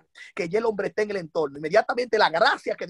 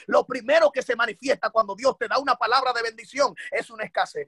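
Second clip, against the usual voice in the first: raised, high-pitched sermon delivery; impassioned preaching; 4 semitones higher than usual. Real, not acted. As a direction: drive each phrase home to the congregation, pitched up. Sustained forceful preaching.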